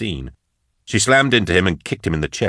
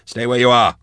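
higher-pitched, firm warning; urgent warning; 5 semitones higher than usual. A narrator's reading. Drusha warns the advancing woman, higher urgent warning. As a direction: warn them to halt, pitched up. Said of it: "Drusha warned".

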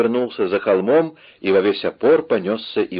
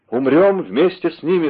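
high, impassioned cry; cried out; 8 semitones higher, 4 dB louder than usual. A narrator's reading. King resolves to die with his men, cried out. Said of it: "вскричал король".

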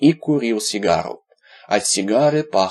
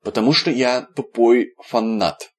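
eager admission; 2 semitones higher than usual. Acted. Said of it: "с готовностью признался Виталик".

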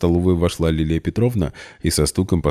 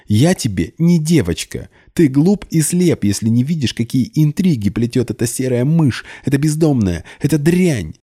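much higher, loud and venomous; furious rant; 9 semitones higher, 3 dB louder than usual. A narrator's reading. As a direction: rage at him. Polina rants in fury. (яростно, высоко и громко)

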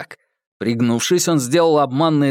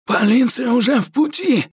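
breathless; 11 semitones higher than usual. A narrator's reading. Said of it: "задыхаясь".

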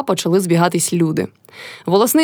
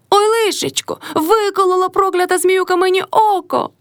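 much higher, lightly wailed lament; wailing cry; 11 semitones higher than usual. A narrator's reading. Old woman wailing after her eye is struck. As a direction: cry out over a hurt eye, a touch of tears. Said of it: "заплакала Кайдашиха".

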